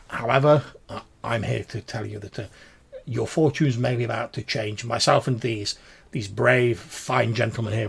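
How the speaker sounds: halting, courteous promise of better news; formal, slightly stammered reassurance; earnest formal gentleman. Acted. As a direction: gentleman proudly presenting his companions.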